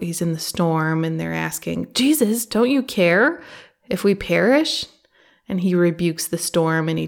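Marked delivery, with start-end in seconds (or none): 1.9-4.9 higher, louder frightened crying out; scared disciples calling to the sleeping Jesus; panicked plea. Retold or imitated. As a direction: beg him to wake up and save them. Disciples plead with Jesus in storm.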